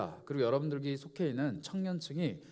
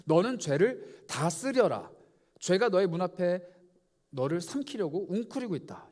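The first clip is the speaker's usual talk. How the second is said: God's stern warning; 3 dB louder than usual. Acted. God warning Cain about sin.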